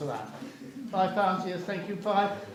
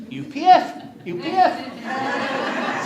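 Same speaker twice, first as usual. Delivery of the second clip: excited reading; 6 semitones higher, 7 dB louder, much slower than usual. Retold or imitated. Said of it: "It says".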